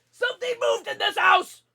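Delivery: jumpy gamer hearing a noise; startled alarm. Real, not acted. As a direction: blurt it out spooked by a sound.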